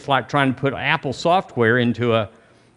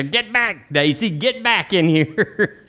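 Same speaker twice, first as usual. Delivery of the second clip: calling the dog; 5 semitones higher, slower than usual. Retold or imitated.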